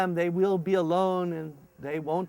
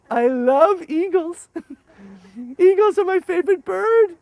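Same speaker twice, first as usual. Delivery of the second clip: mock translator; 12 semitones higher, 8 dB louder than usual. Translator joke.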